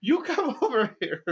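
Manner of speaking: high, loud offended grandpa; the old man challenging the cop, high and loud; indignant old man. Retold or imitated. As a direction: sound scandalised and high. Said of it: "he was just like".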